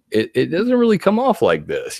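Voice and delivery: usual speaking voice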